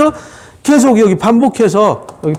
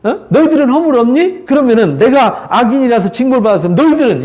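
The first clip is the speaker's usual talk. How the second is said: mildly challenging, lifted rhetorical questions; Job's reproach; 4 semitones higher than usual. Acted. Job to his arrogant friends, mild reproach. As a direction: throw the blame back with mild indignation. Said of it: "이렇게 책망하면서".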